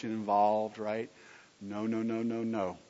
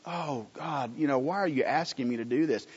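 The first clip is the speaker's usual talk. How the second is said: complaining to God; 4 dB quieter than usual. Retold or imitated. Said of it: "what do we do when God asks us".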